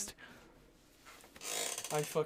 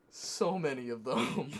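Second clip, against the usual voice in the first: slow emphasis; slower than usual. Real, not acted. Mock outrage at friend.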